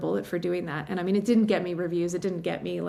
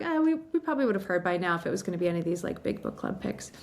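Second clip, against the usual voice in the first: letting down gently; faster than usual. Retold or imitated. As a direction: imitate the agent breaking bad news gently. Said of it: "letting me down gently and being like".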